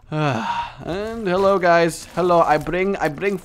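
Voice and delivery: lightly voiced, slightly high cheerful gift bringer; mock gift bearer. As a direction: offer the flies like a gift-bearing character. Voice of the fly bringer.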